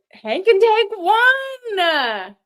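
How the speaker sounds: slow, loud wailing disbelief; mock despair. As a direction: wail it like a lost bet.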